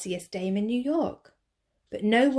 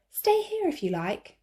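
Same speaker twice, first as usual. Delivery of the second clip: raised jazzman voice; 9 semitones higher than usual. Acted.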